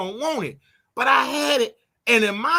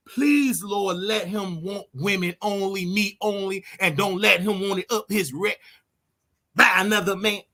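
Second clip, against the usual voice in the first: mock prayer. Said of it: "You got to pray".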